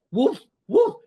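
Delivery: teacher barking as a big dog. Shown as a demonstration. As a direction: bark it out like a dog. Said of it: "So I go".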